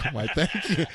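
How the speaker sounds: flattered thank you. Retold or imitated. Himself repeating his reply to Corinne, mock-posh. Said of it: "I was like".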